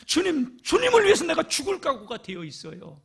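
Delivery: a hint of a brash disciple bragging; boasting Peter. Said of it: "호언장담하고 있어요".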